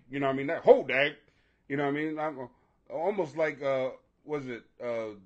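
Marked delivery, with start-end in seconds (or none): 0.5-1.2 excited exclamation. Pretend. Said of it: "what you say when you see a girl that you like".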